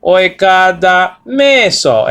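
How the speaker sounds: slow, Italian-flavoured Greek; Italian-style Greek. Shown as a demonstration. Teacher showing students: slow Italian-style Greek. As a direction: say it like an Italian, drawn out. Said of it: "try to speak it like, like an Italian would speak it".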